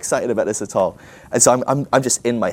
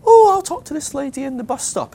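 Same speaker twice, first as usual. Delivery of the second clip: put-on high old-lady falsetto, loud at the start; 5 dB louder than usual. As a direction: pipe up as a hammed-up old dear. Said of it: "one of the old ladies".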